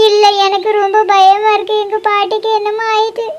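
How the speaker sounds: crying, frightened and blaming oneself; tearful plea that fades at phrase ends; tearful worry. Acted. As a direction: fret through tears. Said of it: "எதுக்கு இப்ப நீ அழுதுகிட்டு இருக்க".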